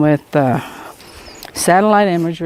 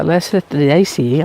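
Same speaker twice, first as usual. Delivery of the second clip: slow word through a retainer; wearing a retainer; 2 semitones lower, slower than usual. Real, not acted. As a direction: say it around a retainer in the mouth. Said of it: "I can't say it with this retainer in my mouth".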